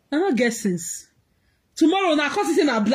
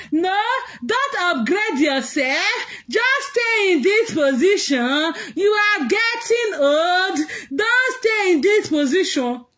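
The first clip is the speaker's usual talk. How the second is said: mock lecture; 3 semitones higher, slower than usual.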